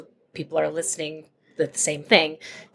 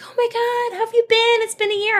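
put-on much higher, gushing over an old friend; gushing reunion. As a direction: squeal it like a long-lost reunion. Mimicking excited reunion greetings.

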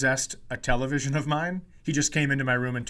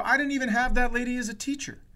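indignant protest; 8 semitones higher than usual. Retold or imitated. Indignant reply to teacher.

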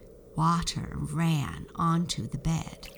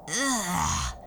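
disgusted ugh; 3 semitones higher than usual. Acted. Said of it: "she cried".

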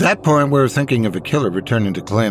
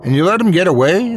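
an angry, much higher snapping question; spat; 9 semitones higher, 3 dB louder than usual. A narrator's reading. The chief, furious at the detective who lost the body: an angry spat question. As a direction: spit the accusation out, growling. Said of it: "the man spat, growling at me".

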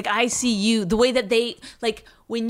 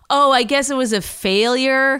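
retold annoyance; 3 semitones higher, 6 dB louder than usual. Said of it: "he was, like, mad at me".

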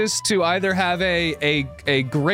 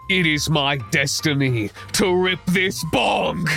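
slow, booming villain declaration; unhinged villain; 3 semitones lower, slower than usual. Acted. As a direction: proclaim it like a madman villain. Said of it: "becomes a true unhinged villain as he rips this".

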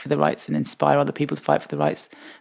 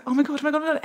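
panicked oh my god; 10 semitones higher, much faster than usual. Retold or imitated. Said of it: "I was just like".

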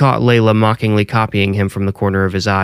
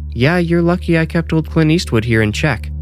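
playful mom voice; 8 semitones higher than usual. A narrator's reading. Teasing mother character.

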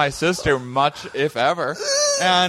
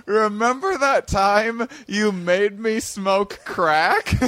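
laughing sister, slow; 5 semitones higher, slower than usual. Retold or imitated. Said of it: "And she goes".

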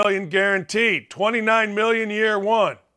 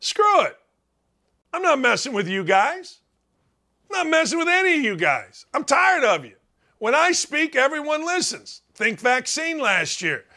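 mock fed-up rant, pitched higher; imitating fed-up Rodgers; 6 semitones higher than usual. Rodgers venting at his receivers, higher mock rant. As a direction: play Rodgers sick of his receivers, voice up high. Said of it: "so he said".

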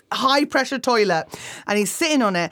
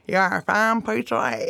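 lightly gummy toothless lisp; toothless uncle. Retold or imitated. Toothless uncle flirting with wedding guests, gummy mumble. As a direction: say it as if you have no teeth.

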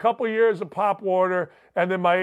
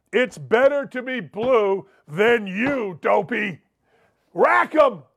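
punchy, showy radio read of an insult; trash-talk read; 2 semitones higher than usual. Acted. Host reading listener's trash-talk email on air, punchy and showy. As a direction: hit each jab hard, stretching key words.

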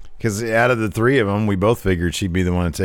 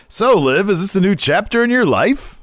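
mock interviewer, higher and a bit louder; weird interviewer voice; 10 semitones higher, 3 dB louder than usual. The speaker asking Liv an odd question, mock-earnest. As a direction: ham up a strange earnest interviewer. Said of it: "All weird, like".

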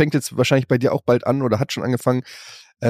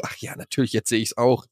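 whispered, embarrassed backpedal; sheepish whisper; 3 semitones lower, 5 dB quieter than usual. Retold or imitated. Dad backpedalling to his son, sheepish whisper. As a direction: mumble it under your breath.

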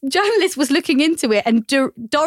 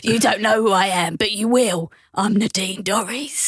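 mock action hero. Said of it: "so I just did Jason Statham instead".

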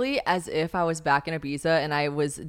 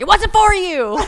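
high, loud, laughing shout; mock indignant yell; 13 semitones higher, 11 dB louder, slower than usual. Telling boys at her show, mock indignant yell.

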